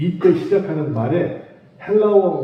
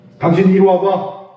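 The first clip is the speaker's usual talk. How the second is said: loud, combative, confrontational, fight-picking tone; 3 semitones higher, 6 dB louder than usual. Showing how calling someone 'you' can sound, confrontational and picking a fight. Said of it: "억양에 따라서 여러 가지가 돼요".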